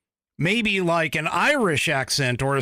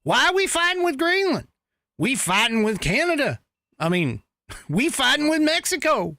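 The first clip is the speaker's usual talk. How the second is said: mocking impression; 3 semitones higher than usual. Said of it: "she's like".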